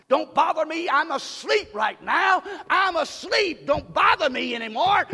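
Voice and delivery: mock sleepy Christian, loud; lightly voiced sleepy believer brushing God off. Pastor mocking a sleepy Christian, hammed-up. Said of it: "be a sleepy Christian and say".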